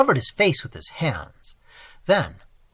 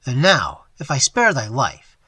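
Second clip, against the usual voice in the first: louder, coldly menacing; cold threat; 5 dB louder than usual. Acted. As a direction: weigh whether to kill him. Robber threatens.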